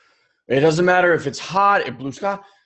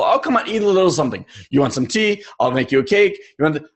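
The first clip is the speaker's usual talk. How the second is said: fast, coaxing grandparent; pushy grandparent; faster than usual. Retold or imitated. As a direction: rush the offer of food like a doting grandma. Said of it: "And they'd be like".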